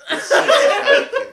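high, slow, exaggerated southern accent; hammy high-pitched southern accent, loud. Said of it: "weird southern accent".

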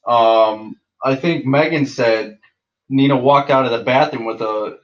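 upbeat, lively retelling; hype man. Shown as a demonstration. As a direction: tell it like the party's on. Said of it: "let me be the hype man".

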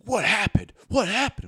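high, loud imitation of eager onlookers; retold urgent questioning, pitch shooting up; urgent crowd. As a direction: mimic people rushing up for gossip. Everyone runs up asking for news.

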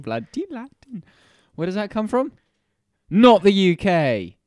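high, slow Welsh voice; hammy Welsh lilt, drawn out; Welsh accent. Pretend. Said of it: "Why have you gone Welsh accent?".

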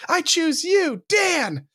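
high, hammed-up Pokémon trainer; mock trainer call. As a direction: call out your pick like a cartoon trainer.

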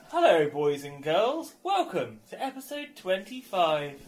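put-on kids presenter voice. Shown as a demonstration. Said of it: "I'm gonna do it in another voice".

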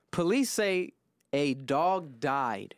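slow, measured news read; deliberate headline delivery. Real, not acted. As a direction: read the story out slowly, phrase by phrase. Reads out news story.

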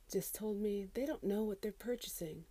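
unvoiced incredulous whisper. Real, not acted. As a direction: whisper it in disbelief. Disbelieving aside.

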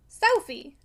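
loud, disgusted snap of a name; indignant disgust. A narrator's reading. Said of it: "said Missus Glegg with indignant disgust".

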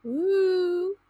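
ghost voice. Pretend. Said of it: "You sound like a ghost".

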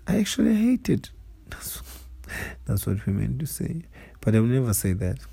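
sleepy, fading and soft; half asleep, drifting off; nodding off. Real, not acted. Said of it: "Oh man, I'm falling asleep".

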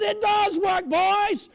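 loud, high joyful reply; triumphant shout. Retold or imitated. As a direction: call it back in triumph. Shouting back to church members.

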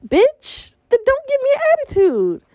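high mock rude driver, snapping; mocking the driver's rude reply. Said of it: "He goes".

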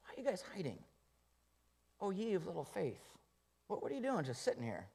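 softly voiced, high upset Jesus; imagined annoyed Jesus, soft and high; mock scolding Jesus. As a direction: lightly play a nagging Jesus. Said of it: "Notice he wasn't upset with them".

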